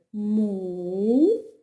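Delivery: Му-зи-ка slowly, three open beats Му, зи, ка; slow syllables. Shown as a demonstration. Teacher to children, Му-зи-ка in slow syllables. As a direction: open your mouth wide on each syllable of Му-зи-ка. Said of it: "Скільки ви відкривали ротик".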